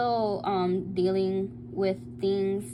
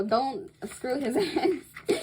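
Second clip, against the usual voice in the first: laughing through it, slower; 4 semitones higher, slower than usual. Real, not acted. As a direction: take it back while giggling. Laughs while correcting herself.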